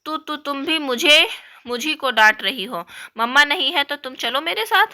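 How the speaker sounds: put-on a mild childish flare of anger; flaring up. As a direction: lash out, tripping on the first words. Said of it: "और भी फरती है".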